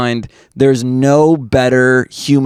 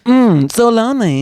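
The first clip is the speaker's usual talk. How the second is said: breathy robot lady; 10 semitones higher than usual. Pretend. Mocking the robot lady line.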